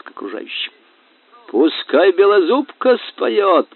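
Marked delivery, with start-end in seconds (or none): 1.5-3.7 громкий, высокий, протяжный возглас; выкрикни требование на весь пир; королевский крик. A narrator's reading. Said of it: "крикнул король". (громко выкрикнув)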